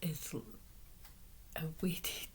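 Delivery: hoarse, strained throat; talking through a sore throat. Real, not acted. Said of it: "I am struggling with a very sore throat".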